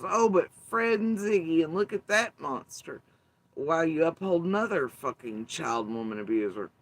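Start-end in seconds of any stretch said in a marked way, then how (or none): 0.0-3.0 higher, louder mock outrage; mocking quote. Mimicking Andy's fans calling out Fred, mock outrage. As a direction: fake shock at the monster. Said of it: "the Andy sector goes".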